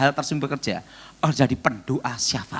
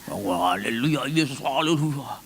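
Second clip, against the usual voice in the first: mock hesitant prayer; 3 semitones lower, 3 dB quieter than usual. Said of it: "ada yang doanya".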